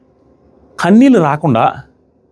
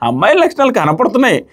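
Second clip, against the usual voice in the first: mocking Kalyan higher; 6 semitones higher than usual. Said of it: "అమ్మాయిల లక్షణాలు కనపడుతున్నాయి అన్నది".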